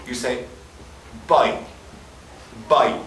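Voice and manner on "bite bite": Irish I sound. Shown as a demonstration. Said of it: "instead of saying buy, you say".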